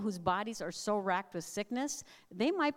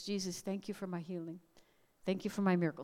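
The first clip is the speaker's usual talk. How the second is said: sweet thanks; 3 semitones lower, 3 dB quieter than usual. Retold or imitated. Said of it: "in his sweet way".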